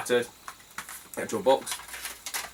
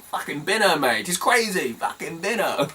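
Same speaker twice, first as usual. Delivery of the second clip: laughing advice; 4 semitones higher than usual. Retold or imitated. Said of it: "I'm like".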